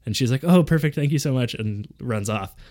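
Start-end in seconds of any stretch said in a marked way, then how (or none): 0.4-1.5 higher-pitched, imitated grateful stranger; effusive thanks. Grateful stranger thanking him for directions, mock effusive. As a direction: gush thanks, lightly acted.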